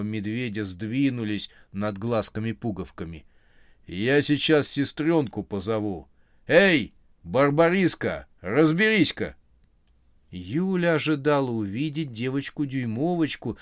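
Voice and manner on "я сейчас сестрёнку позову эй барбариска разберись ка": calling out. A narrator's reading. Bear calling Barbariska to deal with Yulia. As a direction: bear calls his sister, louder and higher.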